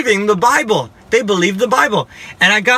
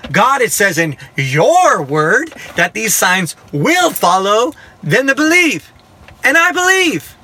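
slow, emphatic retold sass, pitch climbing; sassy insistence, swooping up on key words; sassy prayer; 3 semitones higher, slower than usual. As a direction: challenge God with his own promise. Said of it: "the sassiest prayer you've ever heard".

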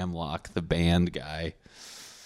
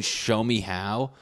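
slow nerdy dare; slower than usual. Retold or imitated. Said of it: "He kept saying".

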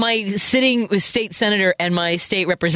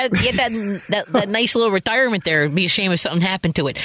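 mock mobster threat, fast; lightly voiced veiled threat; smiling menacing loan shark; 4 semitones higher than usual. Joking threat about retirement.

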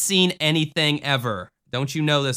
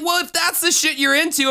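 mock exasperation; 13 semitones higher than usual. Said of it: "it's like".

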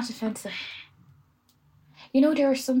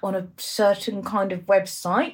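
hushed, secretive whisper; slower than usual. Real, not acted. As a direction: whisper it like a confession. Confessing an embarrassing video.

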